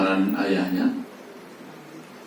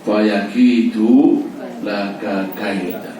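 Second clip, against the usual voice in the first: slow Quranic recitation; 4 dB louder, much slower than usual. Acted. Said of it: "reciting the verse again".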